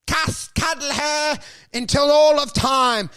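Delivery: mock sappy vow. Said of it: "you've gotta respond".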